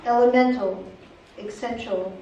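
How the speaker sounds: measured poem recital with frequent pauses; poetry reading. Acted. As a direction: read it as a poem, phrase by phrase. Reads second poem aloud.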